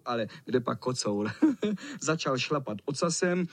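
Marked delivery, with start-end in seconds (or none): 1.4-1.9 cat cackle. A narrator's reading. Wicked cat laughs at boys.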